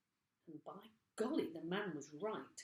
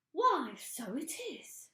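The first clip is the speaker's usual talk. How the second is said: put-on higher, louder, slow surprised old woman; surprised old wife; 9 semitones higher, 7 dB louder, slower than usual. A narrator's reading. Mrs Twit noticing her stick in a high startled voice. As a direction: let it dawn on her in a high voice.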